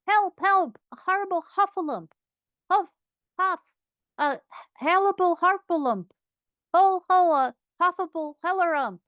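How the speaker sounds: high, loud panic, tripping over the words; breathless little creature babbling in terror; Piglet crying out. A narrator's reading. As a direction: cry out high and fast, tongue tangling. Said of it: "still crying out".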